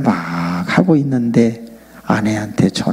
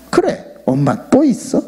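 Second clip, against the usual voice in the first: son teasing; 7 semitones higher than usual. Retold or imitated. Son teasing his mother.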